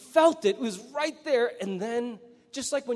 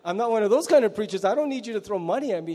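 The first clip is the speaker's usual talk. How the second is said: surprised protest. Retold or imitated. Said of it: "I'm like".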